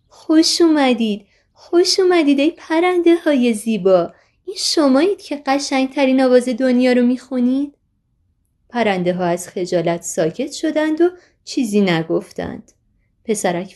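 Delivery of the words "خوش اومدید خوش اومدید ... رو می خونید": high, loud happy calling out; joyful shout. A narrator's reading. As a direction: call out gladly to the pretty birds. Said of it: "با شادی فریاد کشید".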